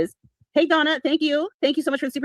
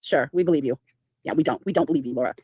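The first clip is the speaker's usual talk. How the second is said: sarcastic disbelief; 8 semitones lower than usual. Real, not acted.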